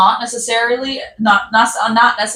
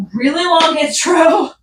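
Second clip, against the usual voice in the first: laughing; 7 semitones higher than usual. Real, not acted. Laughs at her long intro.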